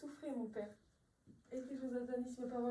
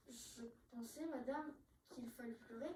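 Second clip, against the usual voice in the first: meek reply; 4 semitones lower, 8 dB quieter than usual. Acted. Maid answers meekly.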